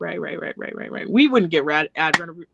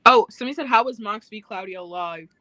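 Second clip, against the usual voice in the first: put-on British accent; 3 dB louder than usual. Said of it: "I keep doing a British accent".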